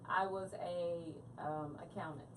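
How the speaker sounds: worn, raspy voice; a strained, raspy voice; raspy whisper. Real, not acted. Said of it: "y'all have to excuse my voice".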